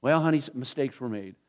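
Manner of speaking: mock apology through a laugh; laughing fake apology. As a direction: play the lame excuse for laughs. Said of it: "everybody's laughing right now".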